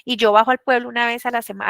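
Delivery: a touch of a scolding rural woman. Retold or imitated. Village woman scolds her teacher, high and mildly cross. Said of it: "me regañó".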